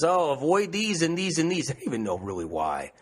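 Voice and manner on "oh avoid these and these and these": mocking expert. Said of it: "every expert has to put it in their book".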